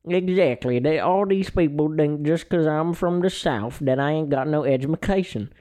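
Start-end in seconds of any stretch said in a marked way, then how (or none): 2.2-5.5 put-on emphasized Southern accent. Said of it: "is emphasizing my Southern, uh, pride".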